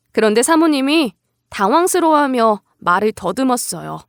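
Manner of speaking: ordinary delivery, nothing marked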